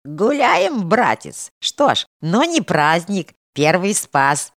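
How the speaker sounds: slow, tipsy, defensive voice; tipsy excuse. A narrator's reading. Tipsy Kirsha justifies the feast to the monk, slow and defensive. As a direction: justify yourself with a drunk slur. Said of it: "оправдывался Кирша пьяноватым голосом".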